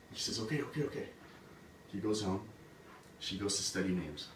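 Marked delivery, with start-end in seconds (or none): 0.4-1.1 higher, repeated quick assent; hasty agreement. Acted. Queen accepts the goblin's three chances, hasty agreement. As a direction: agree eagerly in a raised pitch.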